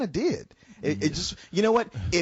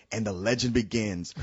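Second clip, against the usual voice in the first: mock trailer voice; 6 semitones lower than usual. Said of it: "that ending that says".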